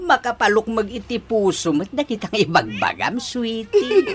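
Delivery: talking through giddy laughter; delighted husband laughing as he speaks. Acted. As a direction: let the giggles spill into the words. Husband giddy at his wife's words.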